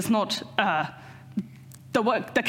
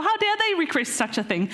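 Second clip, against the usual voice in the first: mock indignation; 5 semitones higher than usual. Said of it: "they get angry with James and John".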